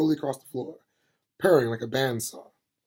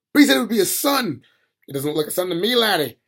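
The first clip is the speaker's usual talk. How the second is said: excited; 6 semitones higher, 7 dB louder, faster than usual. Acted. Smith and Granny argue.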